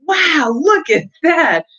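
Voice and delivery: high, slow, amazed and giggly; Tessie laughing. Acted. Tessie to her friend at the dance, high and giggly. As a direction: say it with a delighted laugh. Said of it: "Tessie laughed".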